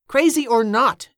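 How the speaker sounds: loud, slow, high-pitched insistence; insistent. A narrator's reading. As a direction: push back firmly, drawing the words out. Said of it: "Danny insisted".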